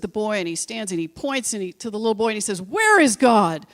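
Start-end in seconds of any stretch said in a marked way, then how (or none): 2.6-3.6 slow, drawn-out mock interrogation; a touch of solemn demand, stretched out; lightly voiced stern pastor. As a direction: lightly play a pastor confronting a boy. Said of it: "the pastor looks at him".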